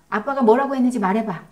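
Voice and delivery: quick, loud, interrogating command; pressing demand. Shown as a demonstration. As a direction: push the child for an answer, impatient. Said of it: "그때 말도 조심해야 합니다".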